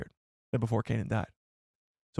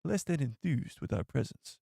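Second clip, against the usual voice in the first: raspy voice; 5 dB quieter than usual. Retold or imitated. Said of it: "he has got a very raspy voice".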